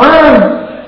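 brief mock shout from a passerby; imitated call. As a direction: imitate someone yelling to get attention. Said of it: "como si alguien me hubiera gritado".

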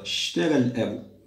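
"اشترى الأب" begun straight on the sh, opening hamza silent; hamza elided. Shown as a demonstration. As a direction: drop the first vowel of "اشترى", start on a hissed sh. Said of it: "لا نقول اشترى".

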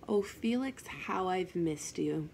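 slow, drawn-out retold greeting; retold eerie greeting. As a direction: stretch it out slowly, imitating an unseen someone. Unknown voice heard at night.

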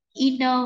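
"Inner" as "in a" joined into one word; "i-na", no gap; linked sounds. Shown as a demonstration. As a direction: carry the n straight into the vowel in "Inner". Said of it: "những cái nối âm như sau".

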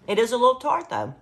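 talking with a mouth full; words round a bite of jelly. Real, not acted. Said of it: "while I have to talk with my mouth full".

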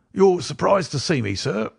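put-on high-pitched croaking old book collector; strange croaking voice. A narrator's reading. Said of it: "croaking voice".

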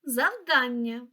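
завдання with a drawn-out дан, zav-DAN-nya; stress on second syllable. Shown as a demonstration. Teacher checking words against the dictionary, second syllable of завдання stressed. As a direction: slowly lean on the middle syllable of завдання. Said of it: "Наголос на другий склад".

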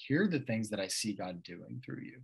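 soft, unhurried encouragement, lightly voiced; a touch of a kind pastor's gentle voice; gently. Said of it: "he very gently was like".

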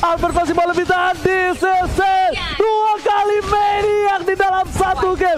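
high, slow victory shout; fighting game announcer. Real, not acted. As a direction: roar out the final call. Caster shouts the winning play.

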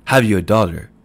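loud sneering question. A narrator's reading. Shopman doubts Mooney has a daughter, loud sneer. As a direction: sneer it out in disbelief. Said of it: "sneered the shopman".

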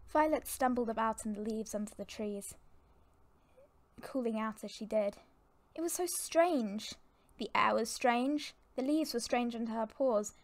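measured, dramatic storybook reading; storyteller setting a tense scene; story narration. A narrator's reading. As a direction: narrate it evenly, with pauses between phrases. Narrates a warrior cats story.

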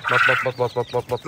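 quick repeated duck call on one level note. Real, not acted. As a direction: coax the duck over with even, repeated calls. Calling the duck again. (مناداة البطة بتكرار منتظم)

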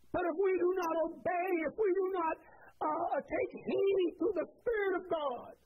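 building sermon delivery, pressing the church; fervent pastor exhorting his church; rising preaching. Acted. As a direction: preach it to the household of faith, climbing. Preaching to the congregation.

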